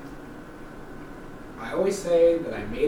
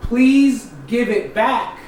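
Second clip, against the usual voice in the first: firmer demand; 5 semitones higher, 3 dB louder, much slower than usual. Retold or imitated. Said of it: "And I was like".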